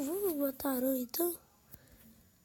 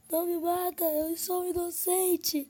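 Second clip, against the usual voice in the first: mock pleading; 5 semitones higher, 4 dB louder than usual. Pleading with attacking mob.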